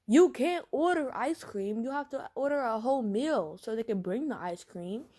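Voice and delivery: high, loud, stretched start easing off; playfully exasperated explaining; acted exasperation. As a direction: protest impatiently, then explain. Exasperated girlfriend explains ordering.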